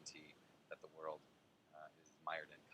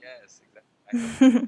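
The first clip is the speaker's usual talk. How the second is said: slow, much higher and louder drawn agreement; exaggerated yes; 31 dB louder, much slower than usual. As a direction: stretch out a gleeful yes.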